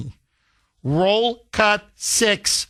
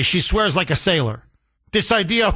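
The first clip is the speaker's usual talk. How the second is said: ordinary talk, nothing marked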